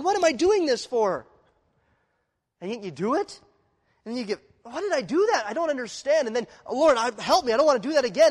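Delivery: high, loud pleading of a sinner caught again; anguished inner cry. Acted. A sinner caught in sin again, crying out in high, loud dismay.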